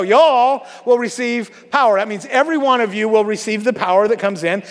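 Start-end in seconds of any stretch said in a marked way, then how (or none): 0.0-2.0 slow, light Southern drawl on "y'all"; Southern accent. Shown as a demonstration. Preacher rereading the verse the more fun way, light Southern accent. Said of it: "You gotta read it different".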